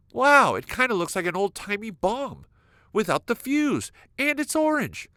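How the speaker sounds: high, wide-eyed wonder; amazed. Retold or imitated. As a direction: marvel at the weird fruit. Amazed at a strange orange.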